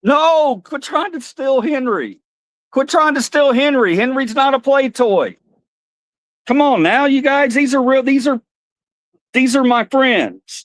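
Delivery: high puppet complaining to the dogs; high mock-upset puppet voice. Puppet scolds dogs stealing Henry.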